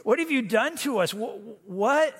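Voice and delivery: high, frantic panicking sailors; mock panic, voice jumping up; exasperated sailors shouting at Jonah. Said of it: "you can see they're exasperated".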